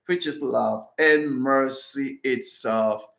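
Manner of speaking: solemn, measured prayer reading. Acted. Reads closing prayer.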